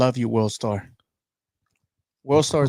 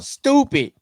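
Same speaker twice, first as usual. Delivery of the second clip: exasperated exclamation; 11 semitones higher, 5 dB louder than usual. Real, not acted. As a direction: repeat the scoff, falling. Repeats the complaint.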